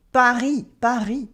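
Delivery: "Paris" said the French way with a silent S; silent final S. Shown as a demonstration. French teacher demonstrating silent letters, final S dropped in "Paris". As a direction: say "Paris" ending on the ee vowel, no S. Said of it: "the S in Paris".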